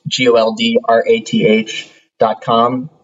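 G O L D R A T H read letter by letter, then "dot com"; spelling it out. Shown as a demonstration.

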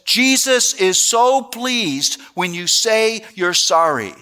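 high, slow mock-approving mother; pious mom. Mom praising her son's forced apology, mock-pious. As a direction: coo it high and slow, dropping on the last word.

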